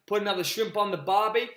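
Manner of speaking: hammed-up catchphrase with an American slant; American-sounding Aussie cliché. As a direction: put on a jokey American accent. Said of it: "I always go American".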